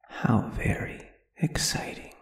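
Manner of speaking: a lonely spirit whispering to a newcomer; long-dead spirit murmuring with eerie delight; ghostly whisper. Acted.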